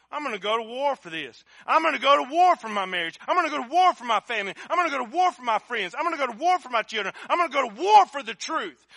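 rally the church to fight, each line a step up; building battle cry. Retold or imitated. Preacher rallying to spiritual war.

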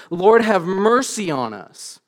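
a restrained version of a shouted plea; crying out. Retold or imitated. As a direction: stretch the plea out with some force. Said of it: "crying out at the top of their lungs".

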